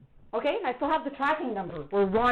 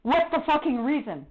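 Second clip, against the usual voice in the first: angry demand; 3 semitones higher than usual. Real, not acted. Confronting officer on the phone.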